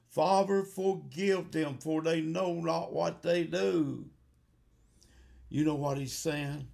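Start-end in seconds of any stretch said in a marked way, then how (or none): 0.1-4.1 tearful plea. Acted. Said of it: "he was crying".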